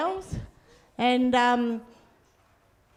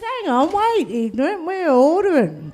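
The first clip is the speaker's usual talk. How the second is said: annoyed yell back; 5 semitones higher, 4 dB louder than usual. Retold or imitated. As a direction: raise the voice, impatient and indignant. Yelling back at honking driver.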